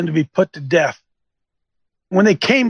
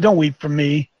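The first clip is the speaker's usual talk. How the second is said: Don't weep for me said lower and gravely; grave lower reading of Don't weep for me; solemn low voice; 5 semitones lower than usual. Shown as a demonstration. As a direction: lower and solemn, the weight of the words. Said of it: "He said".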